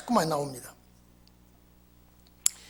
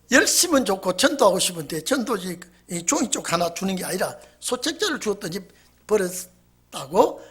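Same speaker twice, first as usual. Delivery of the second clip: ordinary talk, nothing marked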